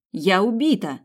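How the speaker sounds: убита yelled loud and high, falling hard; shouted. A narrator's reading. Sabina yelling to the boys that she is out, loud. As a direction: shout убита over the gunfire. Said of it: "крикнула Сабина".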